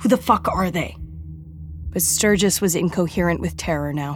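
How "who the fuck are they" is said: grunting. Vivi questions Sturgis right into his ear, grunted. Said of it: "Vivi grunted into his ear".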